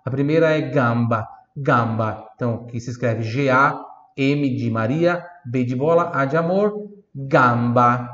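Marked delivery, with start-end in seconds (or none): 0.6-2.3 gamba in careful Italian; Italian model word. Shown as a demonstration. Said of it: "Repita em voz alta". 7.1-8.1 gamba in careful Italian; Italian model word. Shown as a demonstration. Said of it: "Repita em voz alta".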